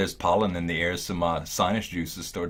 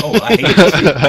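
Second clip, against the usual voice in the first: mock groan; 10 semitones higher, 14 dB louder, slower than usual. Real, not acted. Playful complaint about parkour.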